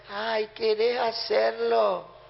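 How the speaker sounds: timid request. Retold or imitated. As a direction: ask meekly as if afraid to give an order. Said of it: "no lo dice". (pedido tímido y lento, sin autoridad)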